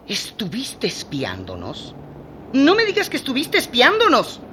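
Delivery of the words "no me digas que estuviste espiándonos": outraged surprise. Acted. Caught being spied on.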